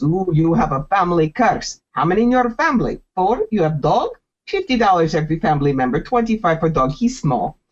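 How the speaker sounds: lightly put-on Russian fortune teller accent; a hint of a bad Russian accent, hustling a customer; mock Russian accent. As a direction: play a pushy fake psychic with a light Russian accent. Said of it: "they do bad Russian accent".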